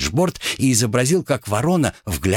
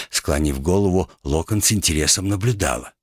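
plain reading voice

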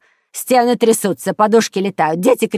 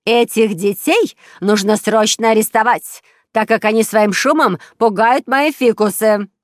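loud, high indignant demand; angry; 4 semitones higher, 7 dB louder than usual. A narrator's reading. Neighbour demanding police arrest children, angry and loud. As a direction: insist angrily at raised volume. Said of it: "сердито топнула ногой".

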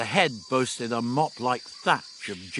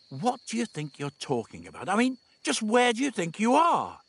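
lightly voiced, rising disbelief; a touch of exasperation; exasperated young man; 9 semitones higher than usual. A narrator's reading. Stephen to Dodo, mildly exasperated questioning.

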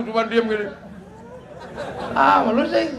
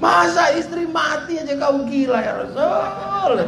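shouting plea; 7 semitones higher than usual. Retold or imitated. Umar's desperate shouting.

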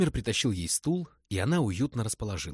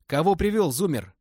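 put-on hoarse old man, high and loud; 8 semitones higher, 9 dB louder than usual. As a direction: rasp it out like an old thug. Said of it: "сипло сказал пожилой человек". (сиплый голос)

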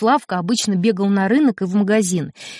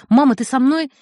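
put-on pitched-up begging boy; child begging his mother not to leave; desperate pleading; 5 semitones higher than usual. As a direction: plead as if losing everything.

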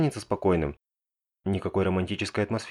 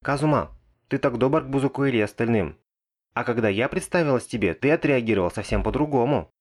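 put-on sulky, higher girl's complaint; jealous sulk; 4 semitones higher than usual. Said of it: "Мегумин снова устраивает сцену". (обиженная ревнивая жалоба)

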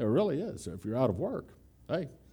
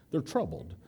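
hushed gossip; 7 dB quieter than usual. Retold or imitated. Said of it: "a nice way of saying".

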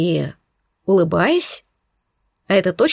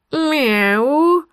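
выше и громче, почти кошачье «мяу»; попытайся мяукнуть как настоящая кошка, но чуть жутковато; более правдоподобное мяуканье; 6 semitones higher than usual. A narrator's reading. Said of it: "прозвучало чуть правдоподобнее". (жутковатое, но более похожее «мяу»)

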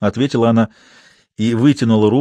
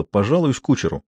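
ordinary delivery

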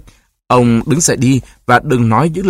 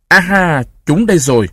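triumphant aha; 6 semitones higher than usual. A narrator's reading. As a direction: catch them in the act. Guard leader finds the towels. (reo lên đắc thắng)

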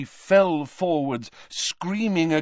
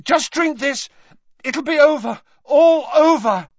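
desperate urging; 13 semitones higher, 8 dB louder than usual. Acted.

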